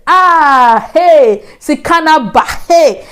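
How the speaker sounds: high playful teasing call; jokingly teasing. Retold or imitated. Teasing roommate about shopping, high playful call. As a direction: tease her lightly about her shopping. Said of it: "So just jokingly".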